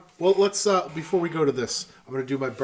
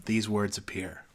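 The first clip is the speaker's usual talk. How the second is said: poem recitation; 3 semitones lower than usual. Acted. Finishing Ozymandias for friends, slow and hushed. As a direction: let it fade to a hush.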